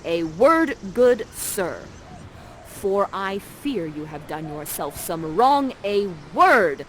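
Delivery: lightly voiced stern parent; measured warning, hitting WORD harder; Prospera. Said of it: "you point your magical staff at Ferdinand, and you say".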